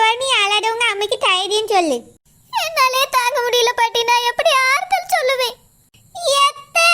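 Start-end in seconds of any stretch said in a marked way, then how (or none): 6.4-6.9 short tearful shout to aunt; crying shout. Acted. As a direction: cry out in pain. Labour cry to aunt.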